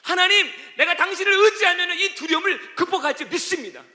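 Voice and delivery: high, loud pleading prayer to God; impassioned prayer, voice lifted; fervent prayer. Acted. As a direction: cry out to God in trust.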